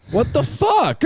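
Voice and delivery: high, indignant group protest; loud-ish, high-pitched retold outrage; mock outrage. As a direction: squawk it in pissed-off disbelief. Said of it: "They were pissed".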